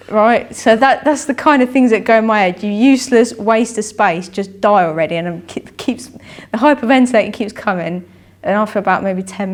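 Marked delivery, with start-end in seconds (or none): 2.6-5.2 harsh inner critic. Retold or imitated. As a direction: throw the insult at yourself with force. Inner voice repeated.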